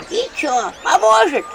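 high, rising hopeful question. A narrator's reading. Old woman asks the healer, hopeful. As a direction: ask full of hope. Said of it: "с надеждой спросила бабка".

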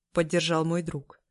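ordinary delivery

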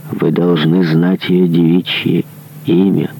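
usual speaking voice

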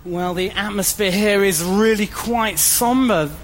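slow, grave live report; solemn on-the-spot news voice; field reporter. Acted.

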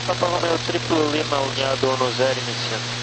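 distant crackly radio transmission; thin voice through a radio speaker; crackly military radio. Real, not acted. Pilot reading back over radio.

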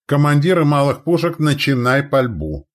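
high, loud battle commands; barked orders. A narrator's reading. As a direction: shout to every gun crew. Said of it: "рявкнул старший орудийной дружины".

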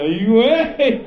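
high, loud, slow stunned groan; hammed-up amazement; mock shock. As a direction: moan it in disbelief. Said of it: "Y yo".

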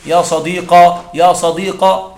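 يا صديقة said slowly with a long final "-a"; drawn-out يا صديقة ending in open "a"; slow demo of يا صديقة as "ya sadiqa"; alif ending, slow. Shown as a demonstration. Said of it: "تقول".

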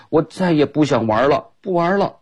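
put-on a child huffing that he quits; Ted refusing to play after nearly falling; angry Ted. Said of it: "Ted生气了".

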